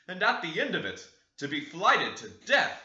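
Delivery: exhausted father complaining to his family, loud; weary old master. Acted. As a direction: groan it out like a man nearly killed by the road. Exhausted master returns home.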